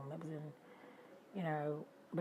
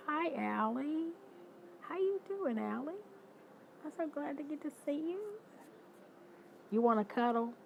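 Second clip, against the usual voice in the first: much higher, sing-song cooing to a pet; 10 semitones higher than usual. Real, not acted. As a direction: coo like greeting a puppy. Greets a pet in baby talk.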